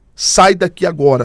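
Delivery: urgent, put-on, shouted delivery. Retelling a voice heard while hiding in a house: imitating a voice shouting. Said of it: "eu ouvi uma voz gritando".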